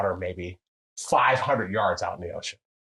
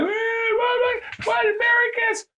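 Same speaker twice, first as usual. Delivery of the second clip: much higher, shouted whoops; mock cheering locals; 4 dB louder, slower than usual. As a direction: yelp it like a thrilled crowd. Locals cheering at tall American.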